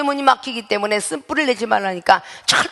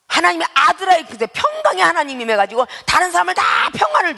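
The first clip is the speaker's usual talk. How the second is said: climbing into a full preaching shout; shouting preacher; 4 semitones higher than usual. Real, not acted. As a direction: raise the voice to the congregation. Preacher's rising exhortation.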